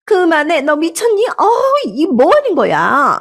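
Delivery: high panicked scream to stop; shrieking. Acted. Mother-in-law screaming as diaper is shoved at her.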